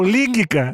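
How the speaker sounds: "línguica" stressed on LIN, ending in a hard -ka; shifted stress. Shown as a demonstration. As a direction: punch the first syllable of "línguica". Offers alternative misreading of word.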